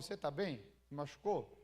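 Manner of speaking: low, soothing retold question; gentle concern. Acts out checking on his wife.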